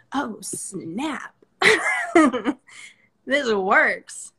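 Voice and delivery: delighted, laughing realization; amazed and laughing; laughing surprise. Retold or imitated. Playful quote of a realization.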